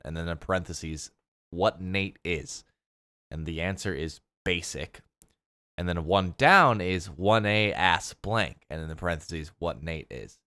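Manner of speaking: flat monotone clue reading. Acted. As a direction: read it dead flat like a robot. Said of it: "I love this monotone reading of these crossword clues".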